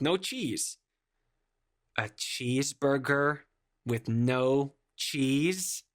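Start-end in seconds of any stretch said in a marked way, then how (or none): 2.0-5.8 slow, halting incredulous echo; baffled disbelief. Acted. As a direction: repeat the order haltingly, unable to process it. Baffled worker repeats the order.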